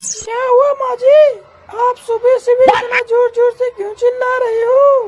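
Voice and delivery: lightly voiced young bride, just woken; a hint of a drowsy bahu asking why she's shouting; sleepy daughter-in-law. Bahu answers mother-in-law. (सास की चिल्लाहट पर हल्की उनींदी बहू की आवाज़)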